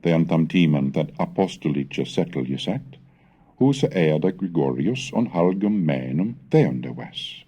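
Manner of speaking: put-on measured, deliberate reading of an old text; Old English recitation. Scholar reading Bede's Gregorius story to students, measured recitation.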